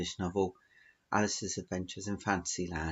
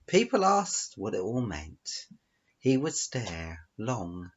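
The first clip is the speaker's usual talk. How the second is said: story narration. Acted. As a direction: draw out the tale towards its closing line. Reads out own story.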